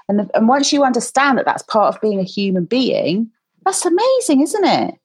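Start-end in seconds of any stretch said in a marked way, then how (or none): 3.6-4.9 praise. Real, not acted. Host praises child warmly.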